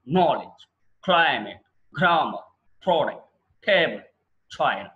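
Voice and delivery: నాలెడ్జ్ and the rest hit on the first syllable; first-syllable stress. Shown as a demonstration. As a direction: model each word with a strong first beat. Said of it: "ఒకసారి ప్రాక్టీస్ చేయండి". (మొదటి అక్షరంపై ఒత్తి)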